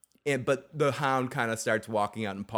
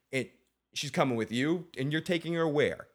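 ordinary talk

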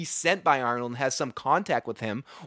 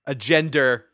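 Boston accent on gender; 5 dB louder, slower than usual. Real, not acted. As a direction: gender said Boston style, no final r. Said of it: "Did I do it again?".

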